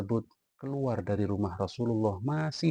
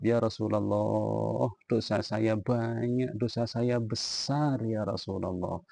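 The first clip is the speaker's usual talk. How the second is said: slow, mournful confession; tearful plea; slower than usual. Retold or imitated. Weeping youth confessing his sins to Rasulullah, slow and mournful. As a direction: drag it out like a weeping sinner. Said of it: "masih menangis".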